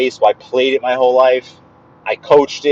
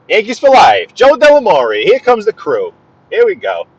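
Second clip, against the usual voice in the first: high, loud hype call; high, loud announcer-style greeting; hype shout-out; 7 semitones higher, 4 dB louder than usual. Real, not acted. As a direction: pump up the crew with a big shout. Hyped shout-out to viewers.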